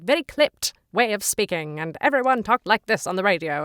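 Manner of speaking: put-on clipped old-time radio Mid-Atlantic accent; old movie accent. Shown as a demonstration. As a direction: briefly put on a clipped vintage Hollywood accent. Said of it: "it's like that old movie voice".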